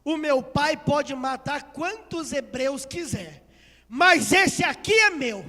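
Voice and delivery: slow build to a loud declaration; defiant claim. Acted. Princess claiming the Hebrew baby as hers, defiant. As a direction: stake the claim forcefully, raising pitch at the end.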